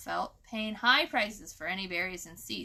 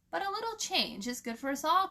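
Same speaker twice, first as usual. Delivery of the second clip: smirking; 8 semitones higher, 4 dB louder, faster than usual. A narrator's reading. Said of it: "Crow said smirkingly".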